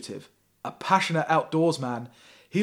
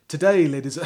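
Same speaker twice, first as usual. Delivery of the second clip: a hint of a Russian accent, louder; reading Popov's speech in a mock Russian accent; 2 semitones higher, 7 dB louder than usual. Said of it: "I just slip into".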